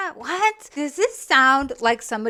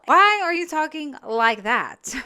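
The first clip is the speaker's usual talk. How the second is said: ordinary talk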